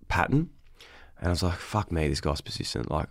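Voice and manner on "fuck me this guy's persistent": softly muttered grudging remark; resigned aside. Retold or imitated. Guest recalling persistent coffee emails, resigned aside.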